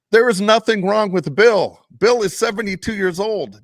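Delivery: high, loud, fired-up declaring; heated rant. Real, not acted. Host ranting to co-hosts about Belichick, loud and fired up. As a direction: preach it hard and high, pushing every point.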